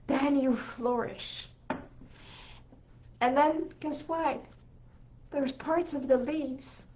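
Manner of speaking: fighting back tears while explaining the flower; real emotion welling up as the flower unfolds; getting emotional. Real, not acted. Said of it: "I don't know why I'm getting emotional".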